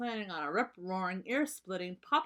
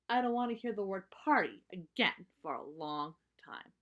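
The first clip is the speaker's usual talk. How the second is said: lightly voiced weary little cub; a touch of exasperation in a cub voice; fed-up cub. Sister fed up with parties.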